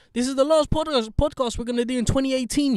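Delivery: high, loud show-opener voice; big excited presenter delivery; hyped host announcement. Real, not acted. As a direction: belt out the announcement, pitched right up.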